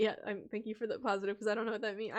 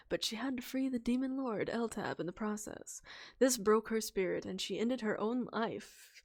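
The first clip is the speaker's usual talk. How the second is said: gentle story narration; soft narrator voice; 4 dB louder than usual. Acted. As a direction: narrate softly to rest the voice. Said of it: "I'm talking like this to try and give my voice a break".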